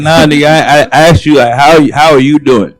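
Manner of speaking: annoyed comeback. Retold or imitated. Annoyed reply, acted exchange.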